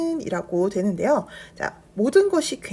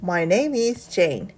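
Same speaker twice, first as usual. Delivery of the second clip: slow model reading; 3 semitones lower, much slower than usual. Shown as a demonstration. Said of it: "질문의 답변은".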